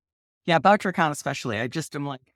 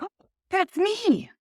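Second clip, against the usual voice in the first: high-pitched thrilled little "oh"; retold excitement; 11 semitones higher, slower than usual. Writer recalling hearing another writer's praise of her, retold excitement. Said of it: "I was so excited".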